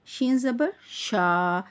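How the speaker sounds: letter and vowel named, then a long drawn-out "शा"; spelled-out syllable. Shown as a demonstration. Teacher spelling out a syllable for learners, drawn out. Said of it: "अलग-अलग करके पढ़ रही हूँ".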